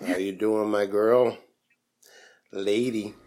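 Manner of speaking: low, soft just-woke-up voice; deep morning voice. Real, not acted. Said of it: "the deep voice this morning".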